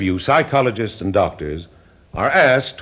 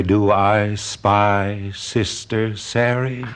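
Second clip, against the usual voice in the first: slow coaxing singsong; much slower than usual. Acted. Doctor coaxing out the other personality.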